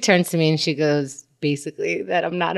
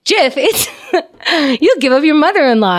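higher, bright-eyed over-eager pitch; excitable ad voice; 8 semitones higher, 4 dB louder than usual. Shown as a demonstration. Actress reprising her eager Jif ad read, excited. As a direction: sell it like an over-excited announcer. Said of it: "I went with that excitable voice".

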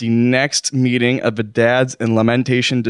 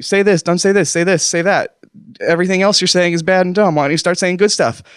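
higher-pitched nagging inner voice; voice of adrenaline; 6 semitones higher than usual. Acted. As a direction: rattle off contradictory orders, pitched up. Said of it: "my adrenaline is firing from all directions, saying".

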